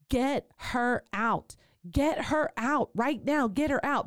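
retold screaming. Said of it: "And I start screaming".

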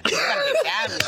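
put-on high, eager childlike plea; imitating Fiona. Imitating Fiona begging for Gavin, high eager voice. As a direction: beg in a high excited voice.

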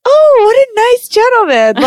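high, loud mock gushing; charmed mom. Mom reacts to nice host, exaggerated high gushing. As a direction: gush admiringly, imitating mom.

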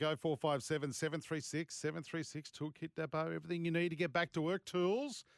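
upbeat radio ad read; live ad read. Acted. Reads a live ad.

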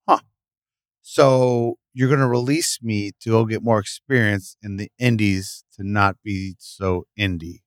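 slow, disbelieving question; incredulous. Retold or imitated. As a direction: spell out the absurdity slowly. Mock disbelief at the release.

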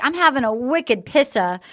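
lightly imitated Boston accent. Imitating a contestant's slang, light Boston accent. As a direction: quote him with a hint of Boston accent. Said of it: "Christian was the guy with the Boston accent".

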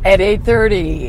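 drawn-out showtime read; movie-phone announcer. Retold or imitated. Co-host joins the movie phone parody, lightly put-on announcer. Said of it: "movie phone".

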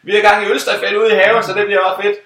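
high, bubbly tipsy woman; chirpy party hostess voice; high bright hostess voice, cheerful; quoting the hostess. Retold or imitated.

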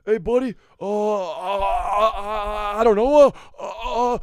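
high, fumbling stammer; cousin Greg impression. Awkward cousin Greg fumbling for words, high. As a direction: stammer nervously, well above your voice. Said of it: "Nicholas Braun, cousin Greg".

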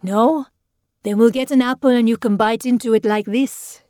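put-on jolly the reluctant child along; tipsy uncle talking up a game; hearty coaxing. A narrator's reading. Tipsy uncle coaxing a scared boy.

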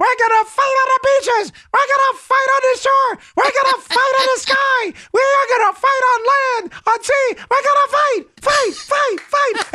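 high squeaky mock battle speech, half shouted; a chipmunk giving a Churchill rallying cry; de Blasio squeaky Churchill. Host parodying the mayor's rally speech, squeaky and high. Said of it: "A Winston Churchill".

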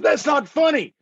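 mildly heated protest; retold scolding. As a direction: act out telling off a friend. Retold argument, scolding the driver.

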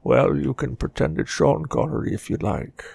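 put-on old Scotsman, a little soft; Sean Connery. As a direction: answer in a mock movie-star brogue. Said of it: "That sounds a lot like Sean Connery".

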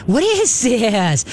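drawn-out, lilting coax; laughing voice. Shown as a demonstration. Trainer demonstrating how to tempt a nervous dog, laughing voice. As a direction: stretch it slowly with a playful lilt. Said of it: "in a laughing voice go".

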